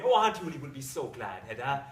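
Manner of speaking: fond gladness, falling low at the start; contained delight. Acted. Husband thinks of his aunt's joy, contained delight. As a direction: say it happily but held in. Husband's first, lower take.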